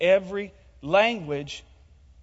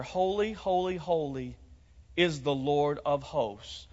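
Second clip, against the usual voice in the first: soft demo of the phrase; 4 semitones lower, 6 dB quieter, slower than usual. Shown as a demonstration. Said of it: "Now that middle phrase there".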